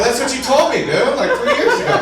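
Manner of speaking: high-pitched comic protest; mock insistence. Acted argument with friend.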